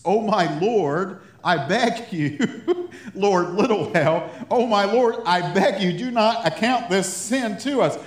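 loud, high, beseeching cry; dramatic reading of a desperate plea; impassioned pleading. A narrator's reading. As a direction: plead urgently at the top of the range. Reading Aaron's plea with fervour.

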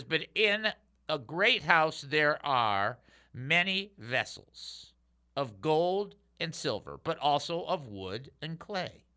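measured reading with deliberate pauses; scripture reading. Real, not acted. Pastor reads Second Timothy to listeners, measured and emphatic. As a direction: read it out in weighted phrases. Reads a Bible verse aloud.

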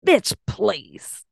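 raspy ghetto city cat voice; sassy smoker's rasp. Pretend. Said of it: "kinda like a smoker voice".

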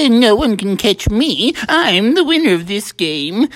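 mild gloating with a little chuckle; prideful boasting. Acted. Smee bragging to the animals about his winnings, prideful. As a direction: crow lightly over your lead. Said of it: "he got really prideful about his winnings".

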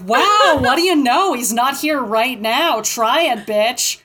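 loud, high-pitched drawn-out wow, then settling; exaggerated sarcastic wonder, easing into a taunt; mock taunt. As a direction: throw it out big and mocking. Mocking retold taunt in the shop.

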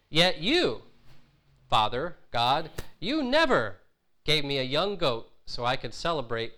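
older son accusing his father, mildly acted anger; resentful accusation. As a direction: spit out the unfairness at the father. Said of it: "then his anger comes out".

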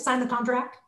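pressured, breath-held close; under pressure, not breathing; holding the breath. Shown as a demonstration. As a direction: say it on a held breath, ending upward. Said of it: "so if I'm holding my breath".

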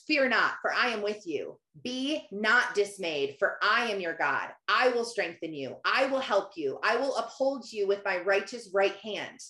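measured, low-key verse recitation; scripture reading. Shown as a demonstration. Quoting Isaiah to listeners, measured scripture reading. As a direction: read the verse steadily, each promise on its own. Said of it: "Isaiah forty-one ten says".

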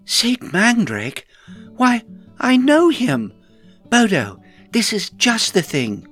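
high, loud burst of delighted recognition; thrilled, high-pitched outburst; excited exclamation. A narrator's reading. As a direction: exclaim it high and loud, stretching the key words. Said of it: "when Rowan exclaimed".

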